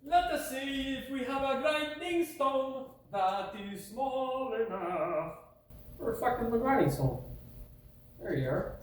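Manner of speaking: high, slow put-on voice; a lightly hammed-up fancy voice; mock posh voice. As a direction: play the prim gentleman searching.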